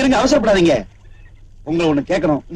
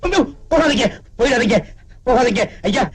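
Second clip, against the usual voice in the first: higher, tearful begging; crying plea; 4 semitones higher than usual. Acted. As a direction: sob out the pleading. Father begs, crying.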